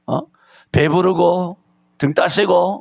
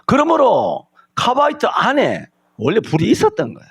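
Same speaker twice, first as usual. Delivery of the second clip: preaching shout; 7 semitones higher than usual. Acted. Preacher's climactic point.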